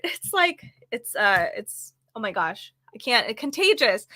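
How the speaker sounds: hoarse, voice giving out; strained, failing voice; losing voice. Real, not acted. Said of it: "I'm losing my voice already".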